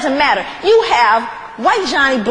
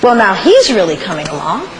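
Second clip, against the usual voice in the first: slave master's appraisal; 6 semitones lower than usual. Acted. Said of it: "they go".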